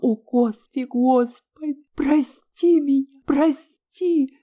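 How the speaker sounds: rising, pleading cry to God; desperate prayer rising in pitch; anguished exclamation. A narrator's reading. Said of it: "воскликнула она".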